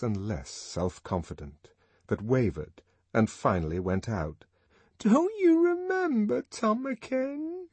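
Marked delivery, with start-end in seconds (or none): 5.0-7.7 very high, slow, trembling plea. A narrator's reading. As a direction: plead as confidence drains away. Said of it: "in a voice that trembled".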